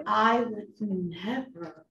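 laughing sarcastically; a sarcastic giggle; mocking laugh. Real, not acted. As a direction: scoff with a laugh. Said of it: "mocking the patient's claims".

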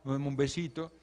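suave y cariñoso, como a un bebé; tierna madre consolando. Pretend. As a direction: consuela al niño con ternura. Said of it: "puedes ir allí y decirle". (madre consolando al niño, con voz tierna y suave)

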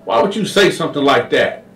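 high indignant denial; high offended voice; Sweet Lo denying. Retold or imitated. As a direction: protest too much. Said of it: "Sweet Lo was like".

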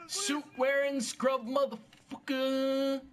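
slow, high drawn-out mock insult; playful high taunting chant; sing-song taunt. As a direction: stretch out each word tauntingly. Mock taunting of game character.

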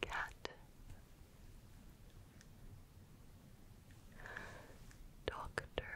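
faint whisper right into the ear; barely audible words, hushed into the ear. Shown as a demonstration. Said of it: "when I whisper something in your ear".

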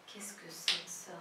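"Qu'est-ce que c'est que ça" run together, softly; joined-up, low and soft "Qu'est-ce que c'est que ça"; quick film intonation. Shown as a demonstration. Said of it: "a entonação dele e como fala rápido".

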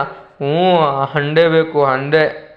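slow, lightly voiced child insisting; stubborn child. Tenali as a child repeating his demand, lightly sulky. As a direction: drag the words like a sulky kid. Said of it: "ನಾನು ಆ ಮಗುವಿನ ಹಾಗೆ ಇಲ್ಲಿ ನಟಿಸ್ತೀನಿ".

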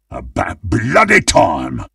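restrained, impatient butcher's grumble. Acted. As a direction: grumble it without shouting, leaning on "bloody". Same line, restrained take.

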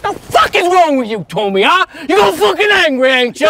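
sneering at Tommy's anger; angry taunt. Acted. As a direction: goad him, shouting.

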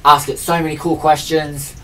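loud, delighted burst over a thrift find; thrilled at the Magic Eight Ball in the op shop; excited gush. Retold or imitated. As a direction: gush like you just found treasure. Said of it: "And I was like".

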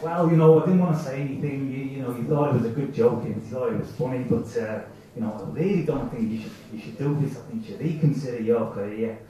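the doubting brain with a hint of Italian; little Italian accent. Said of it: "in a little Italian accent".

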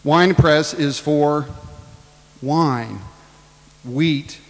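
"Wine press is for" slow, loud, each word weighted; slow emphatic stress. Shown as a demonstration. Preacher stressing wine press for the congregation. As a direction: drag out "Wine press is for", then land "wine". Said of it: "slow deliberate teaching emphasis".

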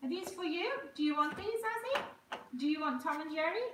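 high, sing-song coaxing questions. Real, not acted. Offering Tom and Jerry to the baby, high baby talk.

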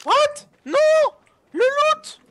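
high, loud dismayed yell; shouting. Real, not acted. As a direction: scream over the lost loot. Loot lost, screaming.

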